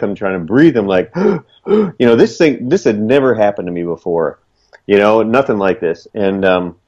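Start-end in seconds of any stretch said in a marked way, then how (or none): 1.1-1.2 gasping for breath. Retold or imitated. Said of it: "I couldn't catch my breath".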